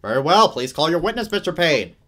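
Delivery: loud stern judge voice; booming judge. Acted. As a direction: boom it across the courtroom. Judge booming over court.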